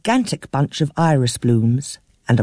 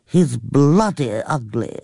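put-on a fretful elderly aunt complaining breathlessly; flustered old aunt; slower than usual. A narrator's reading. Aunt swears.

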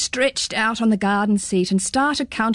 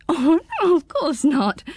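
giggle; 7 semitones higher than usual. Acted. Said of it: "giggled Pins".

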